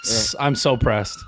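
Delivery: slow, laughing through mock sulk; laughing mock pout. Real, not acted. Mock jealousy about the name.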